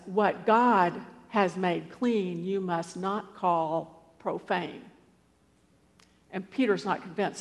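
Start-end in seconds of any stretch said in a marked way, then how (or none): 0.1-4.8 slow, measured pronouncement; lightly voiced divine decree, word by word; solemn divine voice. The voice answering Peter in the vision, solemn. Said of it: "then the voice says".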